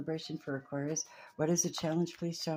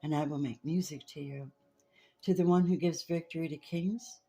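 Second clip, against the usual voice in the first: psalm reading. Acted. Reader to listeners, solemn psalm reading. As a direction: read the psalm aloud like a solemn blessing. Reads a psalm over music.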